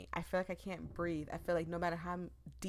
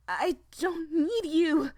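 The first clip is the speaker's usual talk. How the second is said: loud, slow, much higher snap; snapped; 9 semitones higher, 11 dB louder, slower than usual. Acted. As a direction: snap it at her, slowly. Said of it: "I snapped".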